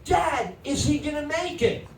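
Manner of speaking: put-on a kid pleading for the hero; worried kid. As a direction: ask like a scared eight-year-old. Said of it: "So I say to my dad".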